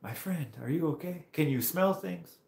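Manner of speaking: put-on high, careful French-accented questions. French rider checking the injured biker, imitated French accent. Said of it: "he didn't speak English that good".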